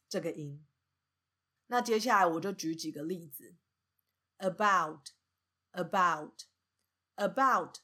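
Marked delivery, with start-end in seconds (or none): 4.4-7.8 "about" with a weak schwa start, punch on BOUT; light "a", strong falling "bout" in "about"; stress on second syllable. Shown as a demonstration. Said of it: "它重音在第二个音节，bout".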